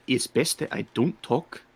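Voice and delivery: put-on lightly accented cat-person; Torben. Tabaxi advising the lad, in a careful accent. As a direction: state it in a character accent. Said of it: "this is all Torben saying this".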